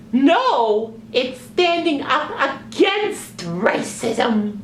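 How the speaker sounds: high, slow, insistent puppet correction; sock puppet voice. Acted. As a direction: spell it out in a squeaky puppet voice.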